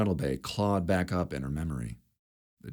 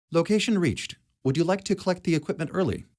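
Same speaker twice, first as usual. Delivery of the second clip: robot voice; 12 semitones higher, 3 dB louder, faster than usual. A narrator's reading. Cog robot speaks.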